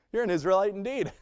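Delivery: bright, chuckling paraphrase; amused teasing. Retold or imitated. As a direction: tease him kindly through a laugh. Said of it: "he just goes".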